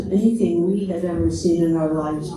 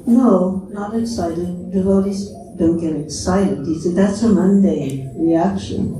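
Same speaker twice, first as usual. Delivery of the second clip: calmly. Retold or imitated. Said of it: "Prabhupada very calmly said".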